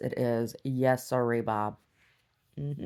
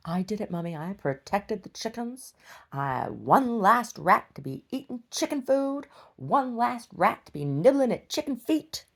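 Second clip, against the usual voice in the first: higher, slow, boastful little dog; proud dog voice; 9 semitones higher, 4 dB louder than usual. Retold or imitated. Dog Brody bragging to his owner, high and proud. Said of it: "He's all like".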